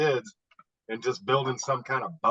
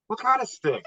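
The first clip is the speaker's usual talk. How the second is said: incredulous question; 10 semitones higher than usual. Retold or imitated. Father questioning daughter retold.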